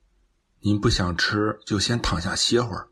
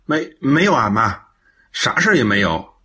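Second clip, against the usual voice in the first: flustered denial; 4 dB louder than usual. Acted. Son hastily denies trouble to mother.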